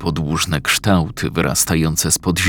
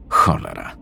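low muttered curse; 10 semitones lower than usual. Acted. Confused man curses to himself.

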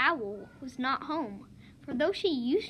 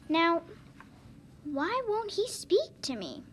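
puzzled; 4 semitones higher than usual. Acted. Python puzzled by iguana.

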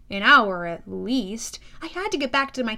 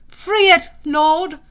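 loud, high pleading horse voice; loud hippocampi pleading with their lord; 5 semitones higher, 11 dB louder, slower than usual. Acted. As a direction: beg the hero to act. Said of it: "they pleaded".

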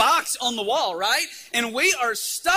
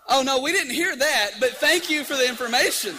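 mock-innocent retort; 4 semitones higher, 5 dB louder than usual. Boys' gleeful retort to girls' slip.

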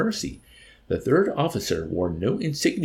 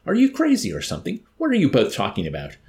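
high, loud indignant outburst; angry indignation; 9 semitones higher, 5 dB louder, faster than usual. A narrator's reading. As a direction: burst out in anger, fear forgotten. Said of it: "wave of anger and indignation".

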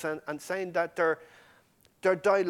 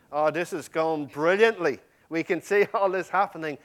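louder, upbeat voice of hopeful followers; mock elation; 6 dB louder than usual. Preacher voices disciples watching miracles, brightly enthusiastic. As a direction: imitate disciples thrilled at how it's going.

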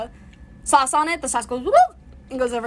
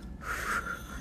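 blowing through pasta; 12 dB quieter than usual. Real, not acted. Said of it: "Sean is blowing through the tube".

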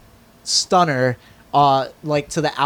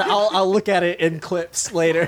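laughing. Retold or imitated. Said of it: "I thought you said".

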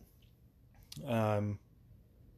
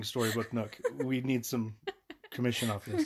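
laughing while talking. Real, not acted. Joking plea, laughing through it.

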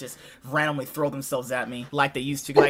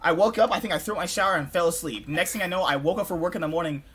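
ordinary delivery

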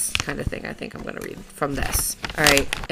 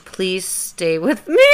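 pleading; 2 semitones higher, 6 dB louder, slower than usual. Acted. Hammed-up plea from her letter.

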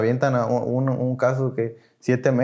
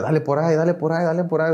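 higher, lightly voiced egging-on; retold sponsor urging; 4 semitones higher, faster than usual. Padrino prompting him at the tribuna, light urging. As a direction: imitate a coach nudging someone on repeatedly. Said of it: "Y me decía".

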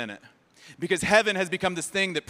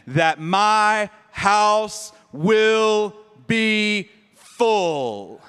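commanding master; 3 semitones lower, much slower than usual. Acted. Master ordering his servant to fill his house, commanding. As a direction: drive the order home, slow and strong.

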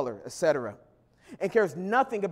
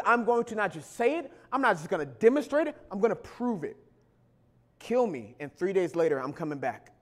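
Jesus speaking; 2 semitones lower, faster than usual. Retold or imitated. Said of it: "Jesus says".

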